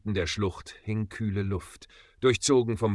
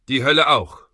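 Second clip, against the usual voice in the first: loud higher growl of defiance; 5 semitones higher, 9 dB louder than usual. A narrator's reading. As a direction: snarl it back. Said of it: "knurrte Maggie".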